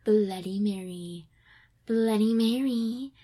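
slow sultry Bloody Mary chant; lightly sultry mock chant; sexy voice. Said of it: "this sexy voice".

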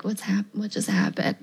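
soft, breathless whispered confusion; baffled whisper. Retold or imitated. Cops baffled as she walks off, whispered. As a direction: whisper it like the cops can't follow.

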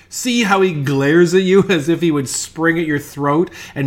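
mock-menacing taunt, called out; teasing cry. A narrator's reading. Gravedigger teasing his mate about the glaring skeleton, jeering cry. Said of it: "cried the other, laughing".

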